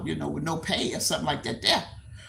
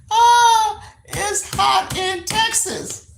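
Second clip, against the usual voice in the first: exclaiming; 7 dB louder, much slower than usual. Real, not acted. Exclaiming about Texas heat.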